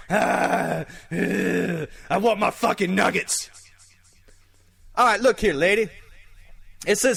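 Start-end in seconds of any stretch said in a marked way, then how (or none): 0.1-3.5 lightly voiced zombie moaning for nuggets; zombie groan. Host doing his favorite zombie line, lightly groaned. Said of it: "Oh, and my favorite one".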